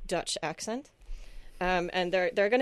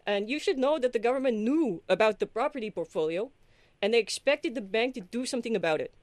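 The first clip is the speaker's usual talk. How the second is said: put-on light Dutch accent, middle-aged Dutch man; a hint of a comical Dutch uncle; mock Dutch accent. Hosts her market explainer for listeners in a mock Dutch accent. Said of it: "I am going to do most of the story in a, in an authentic Dutch accent".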